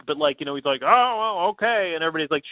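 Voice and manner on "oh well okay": Vince McMahon. Retold or imitated. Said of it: "like, meek Vince McMahon".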